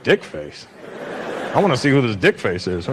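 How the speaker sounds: low, idle wondering; low-pitched innocent curiosity; puzzled curiosity. Acted. His puzzled reaction to the insult.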